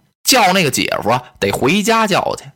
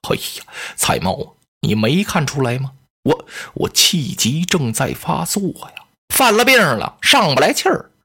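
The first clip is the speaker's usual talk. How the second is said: feigned asthma; 3 semitones lower than usual. Pretend. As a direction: fake an asthma attack, gasping.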